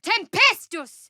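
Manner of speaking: high, slow, drawn-out spell cry; spell incantation. Acted. Caster calling down a storm, slow ringing cry. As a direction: stretch the spell word out like a summons.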